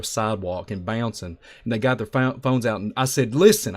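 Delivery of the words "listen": louder call of listen; mock yell across the lot; a moderate retold holler; retold scream. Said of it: "I started screaming across the".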